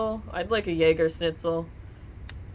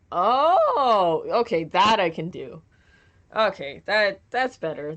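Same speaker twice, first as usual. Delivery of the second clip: surprised relief; 5 dB louder than usual. Real, not acted. Relieved reaction to chat request.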